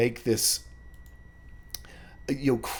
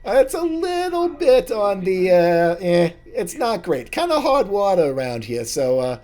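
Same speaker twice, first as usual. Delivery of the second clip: very high, loud squeaky halfling; chirpy barkeep greeting old friends; a high squeaky halfling barman; halfling bartender; 9 semitones higher, 7 dB louder, faster than usual. Acted.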